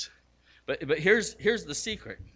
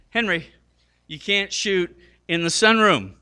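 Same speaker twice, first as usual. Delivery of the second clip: scolding dad; 6 semitones higher, 8 dB louder than usual. Retold or imitated. Dad scolds son in story.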